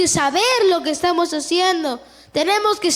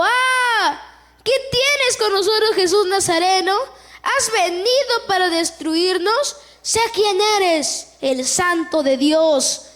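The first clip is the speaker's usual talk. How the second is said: demon crying out; 2 semitones higher than usual. Acted. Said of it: "que dio voces".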